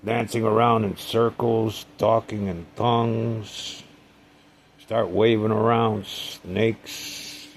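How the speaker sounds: high, loud sarcastic rant; mocking the doctor as a witch doctor, loud; retold tirade. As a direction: tear into him with mounting sarcasm. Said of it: "I said".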